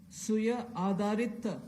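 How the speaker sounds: "Suya Adharita" said slowly in Telugu; "Suya Adharita" with Telugu sounds; Telugu word. Shown as a demonstration. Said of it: "I'll just say what it means".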